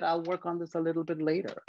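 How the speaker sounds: light magician voice, lifted high. Acted.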